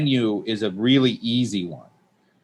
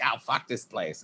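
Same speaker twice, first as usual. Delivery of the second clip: muttered; 11 dB quieter than usual. Retold or imitated. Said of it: "And I'm like".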